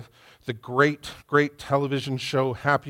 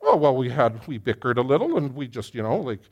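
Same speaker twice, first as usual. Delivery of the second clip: dismissive bickering shrug. Retold or imitated. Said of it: "That is not a little".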